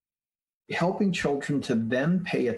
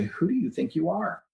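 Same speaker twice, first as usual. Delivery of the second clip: inner critic; 6 semitones higher than usual. Retold or imitated. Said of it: "the critic will say".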